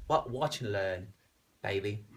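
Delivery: lightly put-on British accent; a cool retort with a hint of British. Singer answering doubters back home, light British accent. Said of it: "that's a good British accent".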